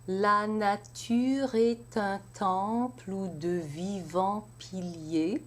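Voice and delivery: slow, syllable by syllable French verse; French verse recitation. Shown as a demonstration. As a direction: count each syllable as you recite. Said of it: "let's try the first line".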